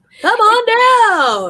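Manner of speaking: high, booming game show call, "on" stretched. Joking about a game show sound: Price is Right host voice. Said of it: "Like the original Price is Right".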